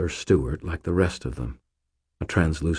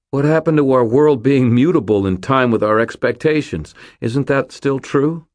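loud, raised-pitch challenge; insistent, high and forceful questioning; urgent protest; 8 semitones higher, 6 dB louder than usual. A narrator's reading. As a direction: argue desperately against a friend giving up. Protesting to a dying friend.

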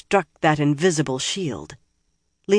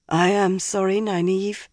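thick voice; 4 semitones higher than usual. Acted. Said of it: "she said thickly".

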